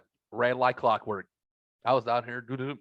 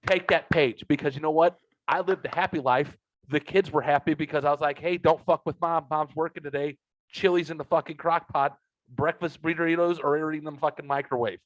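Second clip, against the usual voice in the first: excited; 3 semitones higher than usual. Real, not acted. Preachy excited advice.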